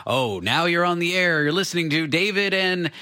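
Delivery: lightly imitated radio announcer. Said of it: "an announcer say".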